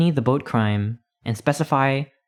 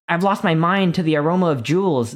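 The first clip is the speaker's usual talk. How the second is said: higher and louder, a hammed-up bellow; mock bellow; 6 semitones higher, 4 dB louder than usual. A narrator's reading. Newborn crazed by the smell of treasure, hammed-up bellow. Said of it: "bellows an infant".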